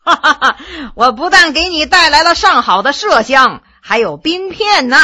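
a laughing guest outside, lightly voiced. Haining jokes from outside the door, laughing. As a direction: chuckle then tease from behind the door. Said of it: "有人笑着说".

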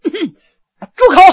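sharp shout. Acted. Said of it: "咳嗽一声说".

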